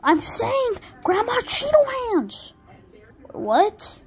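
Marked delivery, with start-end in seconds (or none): 0.0-2.5 high, slow, stretched-out repeat; insistent squeal. Pretend. Repeating for a partner who can't hear, high slow squeal. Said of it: "I can't hear you".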